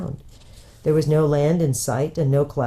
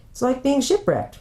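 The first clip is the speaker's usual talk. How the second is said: excited; 10 semitones higher than usual. Acted. Stranded children on beach.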